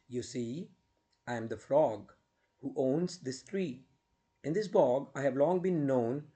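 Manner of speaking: measured verse with swooping pitch and pauses; poem recitation. Acted. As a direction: recite a ballad to students, stressing the rhymes.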